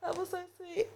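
high, teary laughing through thanks; laughing while choking up; emotional laughter. Real, not acted. Host moved by a guest's note, laughing and near tears. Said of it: "why am I getting emotional".

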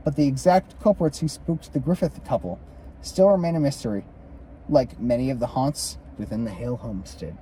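measured read-aloud of a ghost account; story narration. A narrator's reading. Co-host reads the Griffith haunting aloud, story narration. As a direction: read it out as a haunted-house history.

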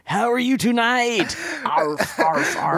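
high squeaky little dog; a small dog yapping politely; yappy chihuahua voice. Pretend. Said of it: "Rocker Spaniel".

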